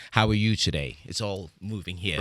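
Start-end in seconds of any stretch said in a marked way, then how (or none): 0.1-1.0 British accent, everyday easy delivery; natural British accent. Shown as a demonstration. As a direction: say it in your own British accent. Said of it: "in my natural accent".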